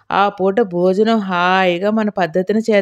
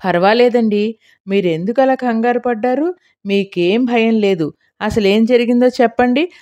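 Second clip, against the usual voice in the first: gently soothing; 2 semitones higher than usual. Acted. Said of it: "మెల్లగా అనునయిస్తూ".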